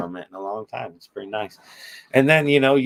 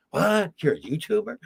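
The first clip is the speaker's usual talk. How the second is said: imitating a nurse, pitched higher in disbelief; mock surprised nurse; 8 semitones higher than usual. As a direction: play a nurse who can't believe it. A nurse reacting in a retold exchange.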